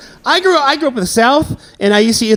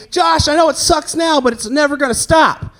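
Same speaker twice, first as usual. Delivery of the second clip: mock pastor; 6 semitones higher than usual. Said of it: "it's like he's telling me".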